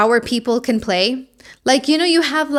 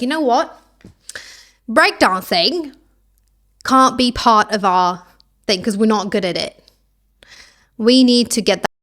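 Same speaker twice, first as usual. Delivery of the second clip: bad Australian accent; 3 dB louder than usual. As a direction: play Australia with a clumsy Aussie accent. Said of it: "stop the Australian accent".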